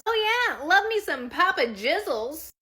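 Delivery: high, loud, slow mock relish; hammed-up husband. Husband jokes at pizza commercial, hammed-up enthusiasm. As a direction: croon it with exaggerated gusto. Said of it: "And my husband goes".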